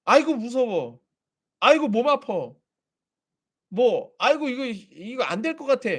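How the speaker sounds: scared believer whining at a ghost, mocked; mock fearful whining. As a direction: play the scared believer, whimpering. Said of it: "귀신이 우리를 건드리는데".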